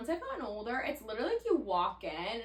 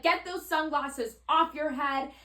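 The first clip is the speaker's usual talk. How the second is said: slow, raised, louder order; mock scolding command, pitched up; retold yelling; 6 semitones higher, 5 dB louder, slower than usual. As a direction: imitate an agent yelling at a passenger. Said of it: "yelling at me".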